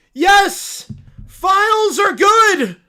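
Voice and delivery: high, loud, slow cartoon bear voice; a cub thrilled by the news; excited little bear. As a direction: squeal it like an overjoyed cub. Bear cheering.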